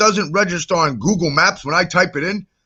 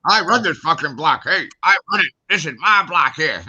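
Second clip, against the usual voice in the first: mock tough guy. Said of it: "Trying to act like".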